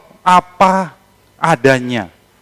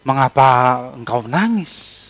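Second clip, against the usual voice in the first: softer, slower tender question; gentle slow asking; 3 semitones lower, 5 dB quieter than usual. Acted. Angels gently asking weeping Maria, soft and slow. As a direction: ask her gently why she weeps. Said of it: "kedua malaikat itu bertanya kepadanya".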